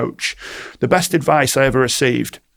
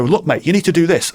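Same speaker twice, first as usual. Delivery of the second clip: blunt push; 5 semitones higher, 3 dB louder than usual. Retold or imitated. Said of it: "I'm gonna break rapport".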